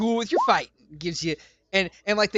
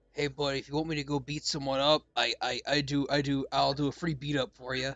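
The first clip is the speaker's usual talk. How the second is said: quiet, hushed half-whisper; 6 semitones lower, 7 dB quieter than usual. Voicing a character who half-whispers a message into another's ear: half-whispering in character. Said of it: "You hear a whisper in your ear".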